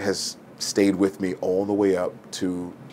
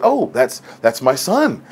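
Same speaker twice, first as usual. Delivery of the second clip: proud mother; 4 semitones higher, 4 dB louder than usual. Retold or imitated. Mom proudly answers the professor.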